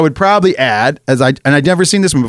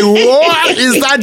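very slow, higher, stretched-out question; baffled disbelief; 9 semitones higher, much slower than usual. Retold or imitated. Recalling his reaction to the scene, slow baffled disbelief. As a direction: drag it out in mock bewilderment. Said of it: "I was like".

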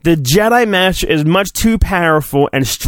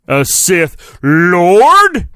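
mock dramatic awe; 2 semitones higher, 3 dB louder, much slower than usual. Mock awe at Sith Lord.

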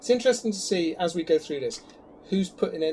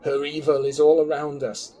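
dramatic reading; 8 dB louder than usual. Pretend. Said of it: "Dramatic reading from Ian now".

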